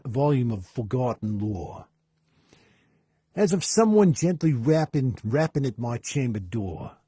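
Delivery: put-on a Boston accent that drifts toward Australian; wobbly Boston accent. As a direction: read the poem in a slipping Boston accent. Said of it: "a little bit of Australian in there".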